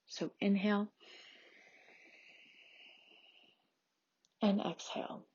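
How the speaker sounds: measured, soothing prenatal yoga teacher; gentle yoga instruction. Acted. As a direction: lead a calm restorative class, leaving long pauses. Leads a restorative yoga practice.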